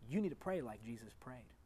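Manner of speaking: hushed, voiceless whisper. Real, not acted. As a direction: lean in and whisper it to the congregation. Preacher drops to intimate whisper.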